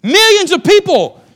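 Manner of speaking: high, booming shouts in measured phrases; full-force preaching shout. Real, not acted. Preacher proclaiming the Red Sea miracle, amazed shouting. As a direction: preach it at the top of your voice.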